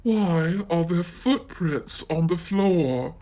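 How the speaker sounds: gently voiced Mommy Bear; Mommy Bear asks about footprints, soft and low. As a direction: ask softly as the mother bear. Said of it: "in her soft, low voice".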